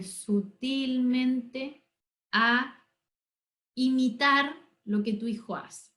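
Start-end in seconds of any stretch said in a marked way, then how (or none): 0.0-4.5 sutilmente drawn out very slowly; stretched out subtly. Shown as a demonstration. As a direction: let sutilmente linger, very slow and gentle.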